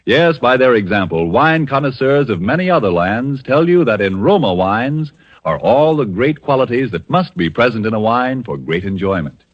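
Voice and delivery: ordinary delivery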